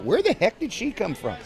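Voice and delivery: high startled question. Retold or imitated. Asking himself, startled by a new voice. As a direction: suddenly caught off guard by himself. Surprised at a voice popping out.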